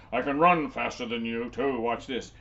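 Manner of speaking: loud giant boast. Acted. Giant showing off his running to Jenny, loud. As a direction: brag about speed. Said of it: "The giant said".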